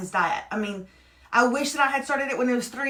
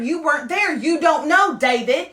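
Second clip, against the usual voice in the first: higher, indignant protest; real defensive protest; 4 semitones higher, 5 dB louder than usual. Real, not acted. Mother protesting to husband that he wasn't there, defensive. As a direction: push back, insisting it was tough.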